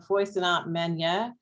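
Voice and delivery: "Feu séant manière" said slowly in a shaky learner's French accent; self-admitted bad French accent. Shown as a demonstration. Quoting a French colleague's phrase to the seminar, in slow learner French. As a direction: sound out the French phrase "Feu séant manière" carefully and slowly, like someone who reads French but rarely speaks it. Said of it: "excuse my bad French accent".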